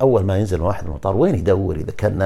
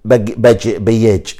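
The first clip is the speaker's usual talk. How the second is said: Spanish pronunciation; 3 dB louder, slower than usual. Shown as a demonstration. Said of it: "الإسباني".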